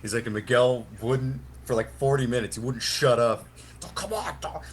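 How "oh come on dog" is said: mild mock whine, pitched up; imitating a pleading drunk, lightly; whiny brat. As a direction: nag like a spoiled kid. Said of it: "whine like a little brat".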